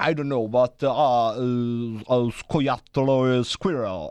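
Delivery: hesitant neuron. Acted. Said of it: "il neurone Peter".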